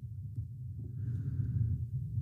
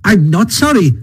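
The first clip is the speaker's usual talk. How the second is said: high, swooping, unrepentant voice; stoutly defiant Toad; 10 semitones higher than usual. A narrator's reading. Toad takes back his apology to friends, stoutly defiant. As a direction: stand your ground, then stretch out the rapture. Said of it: "a little sullenly but stoutly".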